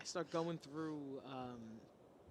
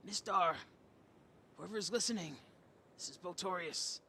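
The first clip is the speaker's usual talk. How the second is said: raised voice, opening strong then easing; calling out loud; 2 semitones higher, 5 dB louder than usual. Acted. Player's character calls for help through a message stone, speaking out loud. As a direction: speak up to reach a distant listener. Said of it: "I say out loud".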